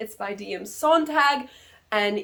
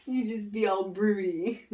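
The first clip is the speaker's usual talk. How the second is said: laughing; 4 dB quieter than usual. Real, not acted. Laughing, directing the friend.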